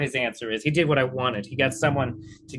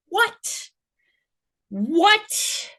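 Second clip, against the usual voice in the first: very high-pitched, squeaky what; baffled disbelief. Real, not acted. Viewer hearing the debater's definition, high-pitched bafflement. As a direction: let the question leap up, utterly baffled.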